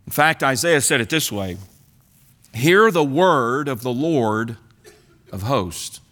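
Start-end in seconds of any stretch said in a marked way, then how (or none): 2.5-6.0 lower, slow grave pronouncement; solemn prophet. Acted. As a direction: intone it like a prophet of doom. Preacher voices Isaiah's solemn oracle.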